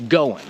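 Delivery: goin' with the G dropped completely; teacher modelling natural speech, G dropped. Shown as a demonstration. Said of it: "they won't pronounce the G at all".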